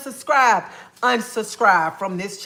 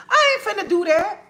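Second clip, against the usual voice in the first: 1 laughing; 10 semitones higher than usual. Real, not acted. Laughing dismissal.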